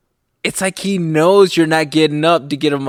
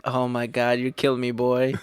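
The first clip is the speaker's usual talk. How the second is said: soft, lower, helpless aside; amused exasperation; 3 semitones lower, 7 dB quieter than usual. Retold or imitated. Dad to his baby at night, amused surrender. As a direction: murmur it in fond defeat. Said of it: "sit there and fucking laugh".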